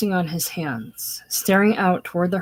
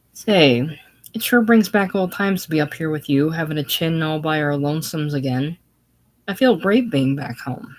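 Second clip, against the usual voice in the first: put-on louder, eager boyish cheer; boyish enthusiasm; 4 dB louder than usual. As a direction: sound like a boy glad to be home. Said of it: "with boyish enthusiasm".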